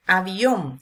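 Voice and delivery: "Avión" with the weight on ÓN; "Avión", last syllable stressed and held. Shown as a demonstration. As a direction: lean on the final syllable of "Avión". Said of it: "sílaba tónica".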